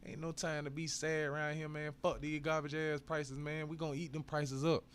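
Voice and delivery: rally the chat with energy; hyped up. Real, not acted. Hyping the stream.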